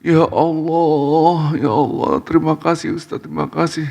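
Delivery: high, wailing thanks, acted; mock crying, stretched and high; imitated tearful wife. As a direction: sob out gratitude like an overwhelmed wife. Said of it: "Istrinya nangis".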